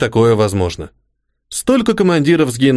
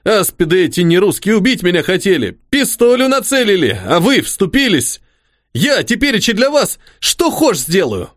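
snotty crying; 6 semitones higher than usual. Acted. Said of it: "шмыгнул носом денщик".

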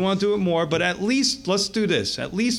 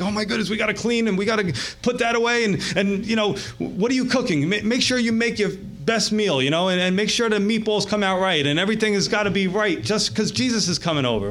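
higher, hurried fretting; lightly acted panic, pitched up; mock flustered host; 4 semitones higher than usual. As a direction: play a host fussing before a big guest. Acted host panicking before guest.

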